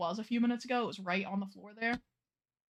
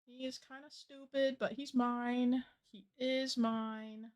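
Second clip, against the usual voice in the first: overwhelmed by cuteness; 2 semitones higher, slower than usual. Real, not acted. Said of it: "Guys, I love him".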